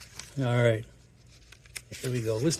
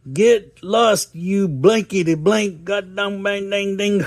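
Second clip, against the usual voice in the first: mock cussing; 6 semitones higher, slower than usual. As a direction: bark it like a cartoon grandpa. Grandpa cussing at kid.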